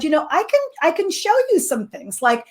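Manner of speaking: gentle, slightly softened offer; very gently. Retold or imitated. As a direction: offer help tactfully, without pressing. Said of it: "she very gently said".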